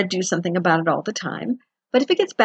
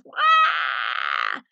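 mock baby wail; 5 semitones lower than usual. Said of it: "all you hear is".

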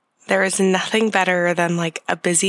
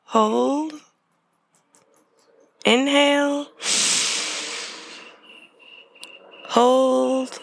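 guided meditation. Acted. Leads a breathing meditation.

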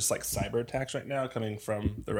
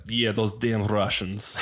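slow, drawn-out mock Russian accent; lightly put-on Russian accent; slower than usual. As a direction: imitate a Russian coworker, unhurried Russian accent. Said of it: "we have a Russian guy on our team".

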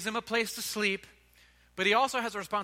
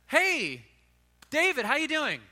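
put-on higher, louder, casual hello to an old friend; breezy friendly greeting; 7 semitones higher, 5 dB louder, slower than usual. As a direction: play it like a buddy dropping by. Nathan greets David casually.

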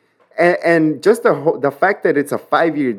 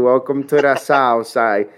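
New York accent; 3 semitones lower than usual. Shown as a demonstration. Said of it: "Practicing, uh, my New York accent".

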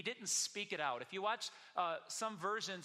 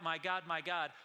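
mildly raised voice quoting a cry; 5 dB louder than usual. Retold or imitated. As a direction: call out to God, somewhat louder. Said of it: "When Jesus cried out".

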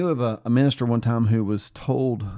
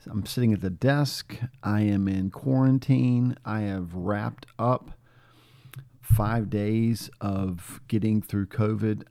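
stuffy nasal voice from illness. Real, not acted. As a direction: talk through a blocked nose. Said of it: "if I sound kinda nasally".

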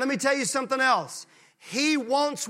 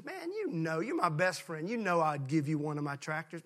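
tender buddy pledge; 5 semitones lower, 7 dB quieter than usual. Acted. Clyde answering his best friend Earl Ray, soft devotion. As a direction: softly pledge loyalty to a friend.

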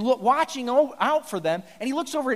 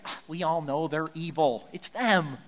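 lower, offhand shrug of blame; dismissive Aaron; 5 semitones lower than usual. Acted. Aaron shifting blame to the people, with a low shrug. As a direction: brush it off onto the people. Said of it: "Aaron just says".

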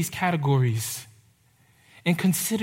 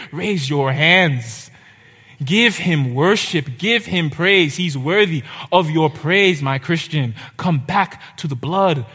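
slow, louder preaching push; impassioned exhortation; 4 dB louder, slower than usual. Real, not acted. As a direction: urge them to worship, slow and loud. Preacher exhorting congregation to worship.

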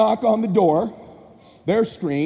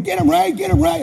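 high-pitched urging holler; yelling encouragement; 9 semitones higher, 4 dB louder than usual. Retold or imitated. Dad egging his son on in a fight, yelling. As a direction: egg the fighter on with a raised, high yell. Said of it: "I'm hearing him yell".

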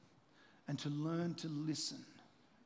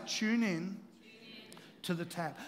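call and response. Real, not acted. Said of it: "everyone say it with me".

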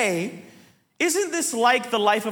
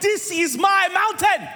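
slow, high, hammed-up proclamation; mock-epic beast voice; menacing beast guardian; 7 semitones higher, slower than usual. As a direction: bar the way with drawn-out bombast. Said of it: "They're like".

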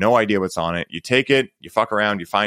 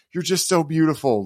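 higher, heartfelt and overcome; overwhelmed sincerity; 6 semitones higher than usual. Retold or imitated. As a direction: barely get the words out, moved. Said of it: "all I could muster was".

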